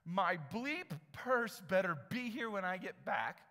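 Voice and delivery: hammed-up furious yelling; angry customer. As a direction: play the furious lady threatening the employee. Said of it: "Here's her response".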